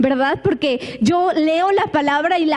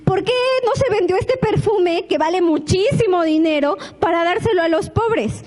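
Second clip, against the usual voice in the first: molesto; 4 semitones higher than usual. Acted. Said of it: "Judas se levanta molesto y dice".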